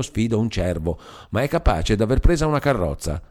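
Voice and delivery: a hint of a spirited Milanese wife; Palmira, lively. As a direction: rattle off the chase with mock outrage. Palmira tells her chase.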